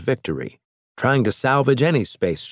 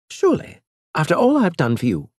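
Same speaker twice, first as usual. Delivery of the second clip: higher-pitched alien envoy, scornful; lightly raised alien voice; alien Elge; 9 semitones higher than usual. Acted. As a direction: play the proud alien mocking the captain.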